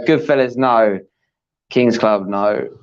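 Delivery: real lack of enthusiasm; unenthusiastic. Real, not acted. Quiz partner reading out players' guesses, unenthusiastically. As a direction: read out the wrong guesses with little interest. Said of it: "Have a bit of enthusiasm".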